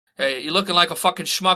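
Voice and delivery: put-on mobster voice. Telling how young guys followed him around, the speaker talks in a Sopranos mobster voice. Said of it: "I talk like The Sopranos now".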